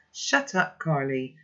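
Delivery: a brief mock yell. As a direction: snap her out of her panic. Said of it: "I yell at her".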